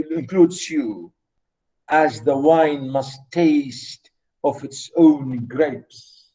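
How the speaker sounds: slow, solemn recital of a love poem; poem reading. Acted. Lecturer reciting a poem to his students, slow and solemn. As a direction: read each line slowly, as if savouring it.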